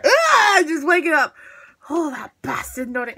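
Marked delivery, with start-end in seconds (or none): 0.0-0.6 sudden higher, louder "Ah!"; startled cry. Retold or imitated. Imitating a thought popping into his head, startled cry. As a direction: jolt out a short mock cry. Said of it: "a thought in my head big as go".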